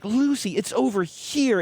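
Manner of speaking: put-on high, childlike call to the dog; little boy voice. Little boy calling Lucy over to play, high and sweet.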